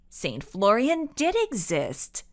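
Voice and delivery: insistent stress on "did"; firm contradiction with "did" emphasized. A narrator's reading. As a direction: push back, leaning on "did". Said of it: "Ava insisted".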